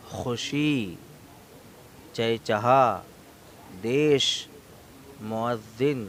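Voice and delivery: each word called out loud and clear, one at a time; slow, loud classroom recitation for the children to echo; teacher reading vocabulary aloud for pupils to repeat, loud and clear. Shown as a demonstration. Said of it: "پڑھیں گے میرے ساتھ مل کر".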